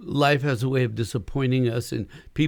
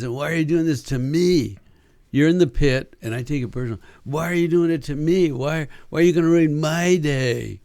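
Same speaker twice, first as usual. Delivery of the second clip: self-pitying whine. Retold or imitated. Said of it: "the worst is".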